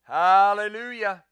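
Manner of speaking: loud, slow, drawn-out shout of praise; ringing hallelujah. Real, not acted. Pastor crying out praise to the church, slow and loud. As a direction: stretch the hallelujah out as a loud cry.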